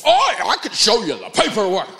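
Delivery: hammed-up know-it-all shout; cocky salesman. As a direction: wave the proof at him. Salesman doubling down.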